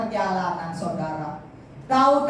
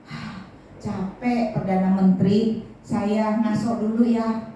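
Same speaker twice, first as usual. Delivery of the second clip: out of breath; 3 semitones lower than usual. Acted. Tired king asks his minister for a rest, panting. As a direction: puff each word like a tired old king. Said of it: "sudah ngos-ngosan".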